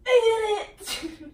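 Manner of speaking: high, loud, drawn-out victory cry; triumphant cheer. Real, not acted. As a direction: shout it out in slow triumph. Triumph after managing a pose.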